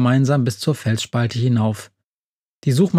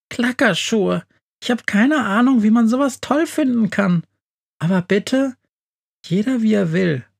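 much higher, dismissive mouse voice; sniffy mouse; 9 semitones higher than usual. A narrator's reading. Mouse mocks the shoes to the friends, high and sniffy. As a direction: turn your nose up at the shoes.

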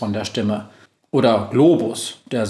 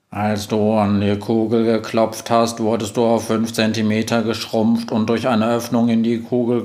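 monotone robot. Acted. Robot assistant greeting the witch, monotone. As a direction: speak like a flat machine.

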